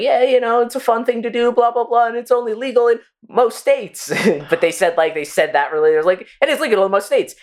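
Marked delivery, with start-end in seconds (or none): 0.0-4.1 high, upbeat radio ad voice; radio commercial voice. Retold or imitated. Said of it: "the fucking commercial was going on". 6.4-7.3 slow ad disclaimer. Retold or imitated. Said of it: "punchline much slower".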